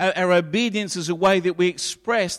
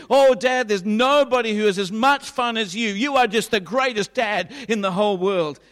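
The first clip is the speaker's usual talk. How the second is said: higher, louder, fawning praise; gushing flattery; 4 semitones higher, 4 dB louder than usual. Pretend. Son gushing over Dad to get out of cleaning. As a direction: lay the flattery on thick, high and loud.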